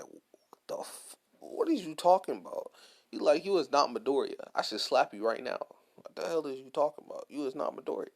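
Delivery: hammed-up rant, half-shouting; mock angry yell.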